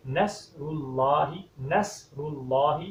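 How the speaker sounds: نصر said with a plain s instead of the heavy sad; wrong s sound. Shown as a demonstration. Teacher demonstrates the common mistake in نصر. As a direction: say نصر slowly with a light s. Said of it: "کیسے پڑھتے ہیں؟".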